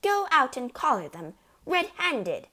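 high, forceful urging; hissed order. A narrator's reading. Mother sends her husband after burglars, urgent. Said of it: "hissed the mother".

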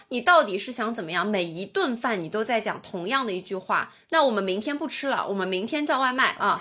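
retold exasperation. Daughter retelling her retort to mother over ordering food, exasperated. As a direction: replay an argument with a touch of annoyance. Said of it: "我就很生气了".

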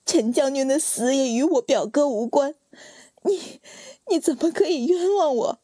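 high, pleading protest against the charge; indignant protest. Acted. Accused wife protesting to her husband, high and pleading. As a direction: cry out your innocence, stung.

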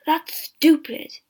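slow, bitter scoffing laugh in the voice; angry laughter. Acted. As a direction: spit it out with a scornful laugh. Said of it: "Johansen laughed angrily".

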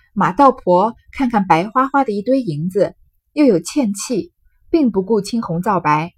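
measured reading of a classic tale; story narration. A narrator's reading. Storyteller describing the greedy woman grabbing silver, deliberate narration. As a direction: read the passage out clearly, phrase by phrase.

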